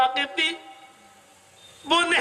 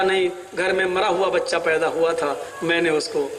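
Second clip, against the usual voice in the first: much lower, hushed fearful telling; wife's lie; 10 semitones lower than usual. Acted. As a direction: hide the truth in a low voice. Wife lies about dead baby. (بیوی کا ڈرتے ہوئے جھوٹ، بہت دھیمی آواز)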